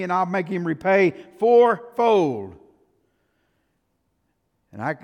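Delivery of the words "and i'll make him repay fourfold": slow, louder indignant verdict. Acted. David demanding the rich man repay, indignant. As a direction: pronounce judgment, outraged and slow.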